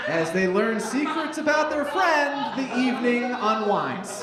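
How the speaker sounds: lightly theatrical announcer delivery; scene-setting read. Acted. Host reading sketch directions to the crowd, theatrical scene-setting. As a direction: set the scene with mild showmanship.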